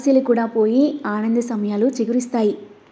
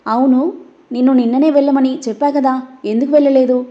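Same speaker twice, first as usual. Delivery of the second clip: louder, pointed question; sharp demand; 5 dB louder than usual. Acted. Dev confronting Nisha about why she has not left, sharp loud demand. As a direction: demand an answer, not asking twice.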